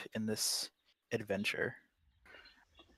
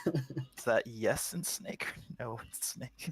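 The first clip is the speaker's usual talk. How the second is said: laughing; slower than usual. Real, not acted. Joking question about snake's look.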